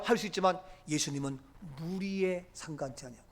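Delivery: usual speaking voice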